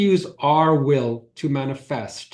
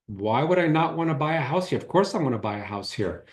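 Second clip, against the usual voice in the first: stubborn pushback, the last line softer and quicker; resistant; 5 dB quieter, faster than usual. Retold or imitated. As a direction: argue back like you refuse to hear it. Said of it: "do you hear that, that resistance?".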